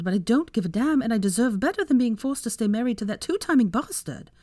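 lightly acted woman revealing betrayal; resolute wronged wife. Voices Hermione revealing the betrayal.

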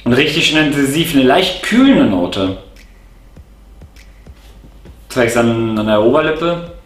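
jar held at mouth; sniffing between words; speaking into a jar. Real, not acted. Seen 0: Holds open tobacco jar to nose and mouth, sniffing, on and off.

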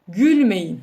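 demonstrated imperative, said firmly; giving an order. Shown as a demonstration. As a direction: order it with a falling close. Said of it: "emir ediyorum değil mi? Emrediyorum".

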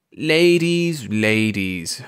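smiling, placating murmur; serene murmur. A narrator's reading. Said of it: "murmured Mister Thurkell, smiling serenely".

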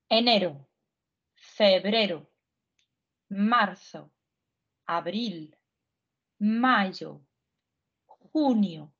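each month said alone with pauses between; teacher modelling the list; repeat-after-me drill. Shown as a demonstration. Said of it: "давайте повторяйте за мною". (учителька задає повторювати за нею)

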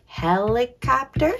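"Helicopter" in chunks, rising at the end; careful "Helicopter" ending upward; sounding out syllables. Shown as a demonstration. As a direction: say "Helicopter" syllable by syllable, questioning lift. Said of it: "Let's check these words out".

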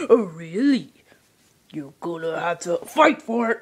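low whispered taunt; whispered threat. Acted. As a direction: whisper it like a dare. Whispered challenge.

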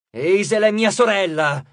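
slow, loud growling threat; growled. Acted. Nico draws his sword on the host, growling. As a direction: warn him through a growl. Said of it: "ringhiò".

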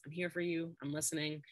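put-on calm the upset child gently; soothing response. Shown as a demonstration. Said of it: "some type of soothing response".

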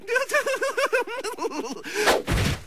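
shrill panicked giggle; high nervous laugh. Acted.

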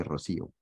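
Rocío with the accent on the í, ro-SÍ-o; three-syllable Rocío, stressed SÍ. Shown as a demonstration. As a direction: lean on the middle syllable of Rocío. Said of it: "lleva tilde en la I".

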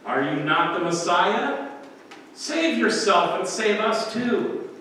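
mocking. Criminal joining the mockery of Jesus, slow mock taunt. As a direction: sneer the dare, drawing it out. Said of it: "joins in on the mockery".

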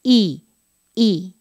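"I" said with the teeth bared; bright Spanish "I" with lips pulled back; teeth showing I. Shown as a demonstration. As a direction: show your teeth on "I". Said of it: "estoy mostrando los dientes".

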